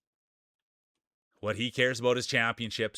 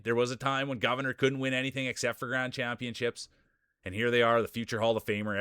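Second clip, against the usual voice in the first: race announcer; 2 semitones higher than usual. Acted. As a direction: call the racers onto the track like a ringside announcer. Hypes marble race entrants.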